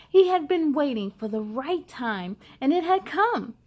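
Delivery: put-on lively read-aloud to children; picture book reading. A narrator's reading. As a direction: tell the story brightly to young listeners.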